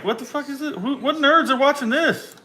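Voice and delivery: high, incredulous mocking rant; mock disgust. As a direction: sneer at the nerds. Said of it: "I was like".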